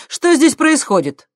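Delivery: high, loud strict demand; stern. Acted. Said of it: "строго спросила Виктория".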